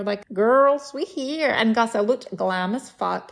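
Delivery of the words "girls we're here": high, louder mock call-out; arrival announcement. Friends announcing arrival from the airport, raised excited call. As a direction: sing out a big hello, pitched up.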